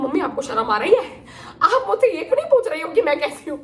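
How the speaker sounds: laughing mock outrage at mom; laughing indignation. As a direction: scold her through laughter, pitch climbing. (हँसते हुए नकली गुस्सा)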